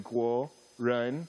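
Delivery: 国人 said with the tone going up; rising tone. Shown as a demonstration. Pastor drilling the congregation on tones, 国人 rising. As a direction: let 国人 rise in pitch. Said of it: "and you say, like, up, too".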